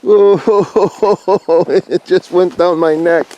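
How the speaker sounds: high gasping laugh at the cold; startled by cold snow. Real, not acted. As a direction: yelp as snow hits the neck. Snow falls down her neck.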